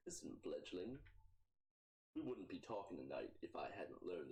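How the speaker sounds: Torque's voice. Acted.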